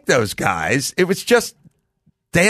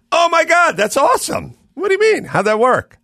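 imitating excitement; 14 semitones higher than usual. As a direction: gush like someone truly impressed. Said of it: "They really should be going".

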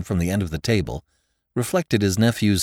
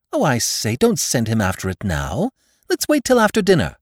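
put-on lively young man voice; 5 semitones higher than usual. Nephew urges waiting.

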